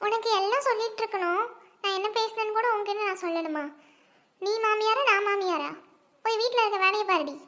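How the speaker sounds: acted indignant telling-off; cross scolding. Mother-in-law ordering daughter-in-law back to housework, cross scolding. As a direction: put her in her place, forcefully.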